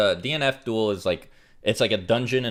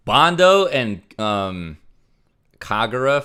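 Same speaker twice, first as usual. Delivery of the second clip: excited; 3 semitones higher, 8 dB louder, slower than usual. Real, not acted. Excitedly reads out character names.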